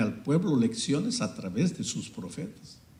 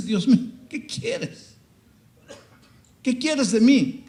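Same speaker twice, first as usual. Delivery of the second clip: high, slow, crying out to God; a broken man begging heaven; anguished plea; 12 semitones higher, 4 dB louder, slower than usual. Acted. Prophet crying out to God in despair, high slow anguished plea. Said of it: "Y el profeta llora".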